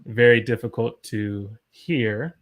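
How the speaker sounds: slow phrase, setting "hear" apart at the end; measured, with "hear" held clearly for the learner; helpful emphasis on hear. Shown as a demonstration. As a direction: draw out the words leading up to "hear". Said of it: "also understand the word hear".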